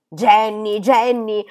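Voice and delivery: loud, desperate call up the house; frantic shriek. A narrator's reading. Molly calling the maid, frantic at the delay, shrieking. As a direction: yell for her, frantic at the delay. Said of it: "strillò Molly, frenetica per quel ritardo".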